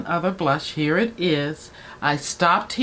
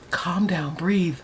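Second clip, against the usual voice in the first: self-soothing; 3 dB quieter, slower than usual. Real, not acted. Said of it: "My heart is going like this".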